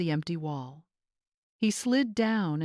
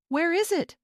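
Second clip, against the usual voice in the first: sharp, high, louder demand; sharp question; 11 semitones higher, 4 dB louder than usual. A narrator's reading. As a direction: snap the question out at her. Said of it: "Greg asked sharply".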